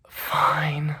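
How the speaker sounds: whispered, drawn-out concession; whispery mock surrender; grudging agreement. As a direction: imitate a reluctant give-in under the breath. Retold grudging agreement from girlfriend.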